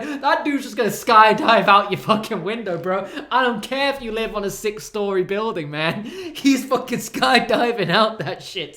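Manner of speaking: loud hyped bro voice; bro yelling. Retold or imitated. Friend hyping the skydive escape, loud.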